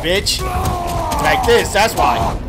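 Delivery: heated cursing at the screen; swearing tirade. Real, not acted. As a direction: spit insults while button-mashing. Cursing at the boss mid-fight.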